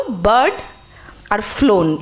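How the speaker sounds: বার্ড and ফ্লোন given firm weight; stressed words. Shown as a demonstration. Teacher pointing out stressed words, বার্ড and ফ্লোন emphasized. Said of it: "একটু stress দিয়ে বললাম".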